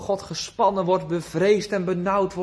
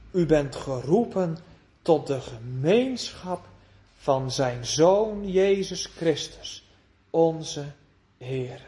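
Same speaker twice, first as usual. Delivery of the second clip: tender quote; 5 semitones lower, slower than usual. Acted. Preacher reading Paulus's call to fellowship, lower and tender. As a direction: linger on each phrase tenderly.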